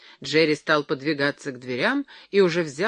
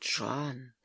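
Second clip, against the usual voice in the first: hushed, softer, like a conspirator; conspiratorial whisper; 3 semitones lower, 9 dB quieter than usual. A narrator's reading. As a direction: call the name in a secretive undertone. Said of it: "прошептал он как заговорщик".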